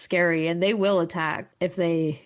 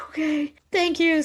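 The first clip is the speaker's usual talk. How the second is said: mock grateful; 9 semitones higher than usual. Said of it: "And I was like".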